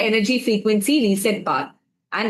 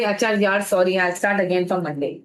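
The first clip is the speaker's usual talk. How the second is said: sheepish excuse; 6 semitones lower, faster than usual. Retold or imitated. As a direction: sound like you're letting yourself off the hook. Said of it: "And you say".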